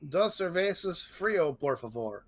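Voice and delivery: slow, hammed-up Spanish beer order; mock Spanish. Friend joking about beer orders in a mock Spanish accent. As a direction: play a tourist ordering beer, slowly. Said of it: "I do that after beer".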